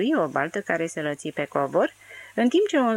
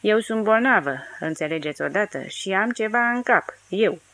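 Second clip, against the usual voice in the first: louder and higher, lashing out; drunken rant; 3 semitones higher, 3 dB louder than usual. Acted. Drunk Dirty lashes out at the servants, loud and higher. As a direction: throw it at them like an accusation.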